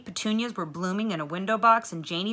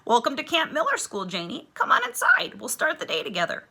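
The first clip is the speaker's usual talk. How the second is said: higher, bright welcome, very high on inside; welcoming teacher; 8 semitones higher than usual. A narrator's reading. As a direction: invite her in warmly.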